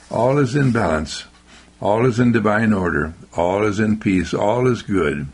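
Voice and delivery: calm affirmation. Shown as a demonstration. Speaker answering bad news with calm affirmations. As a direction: settle down with each phrase.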